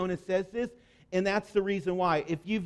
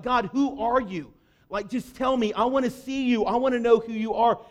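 slightly raised, insistent appeal; earnest plea; 3 semitones higher than usual. Acted. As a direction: plead with God to show himself. Moses pleading to know God.

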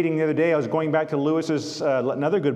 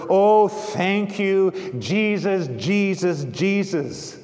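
crying aloud; 3 semitones higher, slower than usual. Acted. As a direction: let the joy burst out, then fade on each Jesus. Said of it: "she cries aloud".

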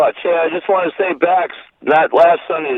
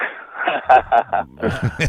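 maniacal laugh; 2 semitones lower, 3 dB quieter than usual. Real, not acted. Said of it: "look at the maniacal laugh".

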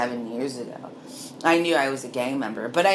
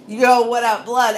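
much higher, louder hail; greeting shout; 9 semitones higher, 8 dB louder than usual. Retold or imitated. Greeting a fellow gang member on the street, loud hail. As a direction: call out a friendly greeting across the street. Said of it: "And it was".

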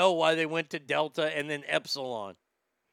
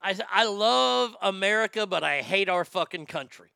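loud and fast at first, then hammering it home; shouted declaration; 3 semitones higher, 5 dB louder than usual. Shown as a demonstration. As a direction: yell it out like a rally cry. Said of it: "Say it like this".

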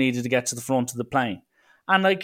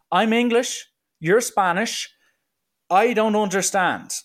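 exasperated protest; 9 semitones higher, 3 dB louder than usual. Retold or imitated. Exasperated at Spanish airport worker.

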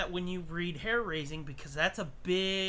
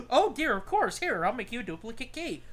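prim clerk; 5 semitones higher, 4 dB louder than usual. Retold or imitated. Clerk voiced after a gasp.

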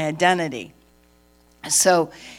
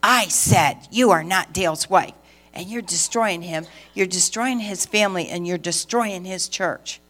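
stronger accusation. Retold or imitated. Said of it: "even stronger demonic".

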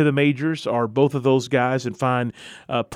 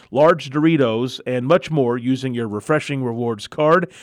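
booming prize announcer. Acted. Sponsor ad read on air.

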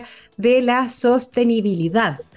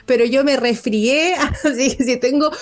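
nasal voice; 2 semitones higher than usual. Real, not acted. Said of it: "me escuchan un poquito gangosa".

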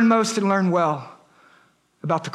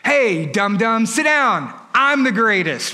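mock rebuke; 2 semitones higher, slower than usual. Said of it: "think Jesus is gonna rebuke him".

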